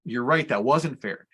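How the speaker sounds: slow, calm validation; unhurried retold reassurance, understated; affirming reply. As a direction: agree steadily with an upset child. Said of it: "affirm everything she said".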